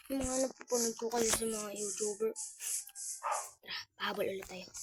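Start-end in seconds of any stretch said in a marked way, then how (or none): 3.6-4.7 whispering. Real, not acted. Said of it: "whispered mid-game".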